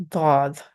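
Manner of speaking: "Dod" with a thick, heavy D; thick, heavy sound. Shown as a demonstration. Teacher summarizes hints for learners, heavy sound. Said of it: "it's thick or heavy sound".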